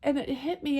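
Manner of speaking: high and shaky with real tears, voice thinning; barely keeping it together; real crying in the throat; tearful. Real, not acted. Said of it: "Sorry, I get emotional".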